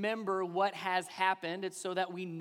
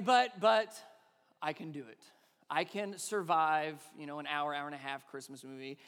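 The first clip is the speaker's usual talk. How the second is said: resigned sigh; 5 semitones lower than usual. Retold or imitated. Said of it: "Now I'm saying".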